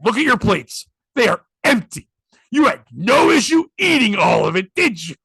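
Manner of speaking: emphatic, indignant telling-off, acted out; pointed mock reprimand; retold scolding. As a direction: imitate an owner shaming complainers. Retold husband scolding customers.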